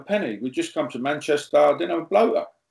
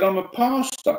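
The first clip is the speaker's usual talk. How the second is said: high protest; 11 semitones higher than usual. Retold or imitated. Protesting to mate.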